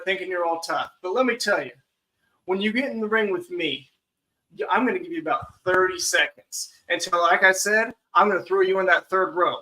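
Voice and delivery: lightly hyped heel trash talk; wrestling promo. Acted. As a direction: threaten your opponent, showman style. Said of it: "that was a good promo".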